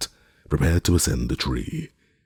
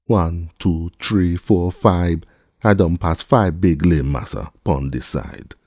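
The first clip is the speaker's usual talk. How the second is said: higher, louder calling count; counting aloud, calling; 4 semitones higher, 5 dB louder, slower than usual. A narrator's reading. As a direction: call out each number. Jupiter counts limbs aloud.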